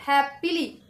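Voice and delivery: हैप्पीली slowly, weight on हैप; drawn-out strong हैप, lighter पीली; stress on हैप. Shown as a demonstration. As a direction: lean on the first syllable of हैप्पीली. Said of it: "तो हैप starting stressed".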